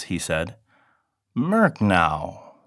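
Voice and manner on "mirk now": slightly higher mewing cat voice. Acted. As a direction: mew it like a hungry cat. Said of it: "the cat cried".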